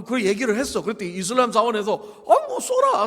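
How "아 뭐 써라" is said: higher, louder acted go-ahead; mock generous host; breezy permission. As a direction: wave them in with a loud, casual yes. Acts out mosque granting permission.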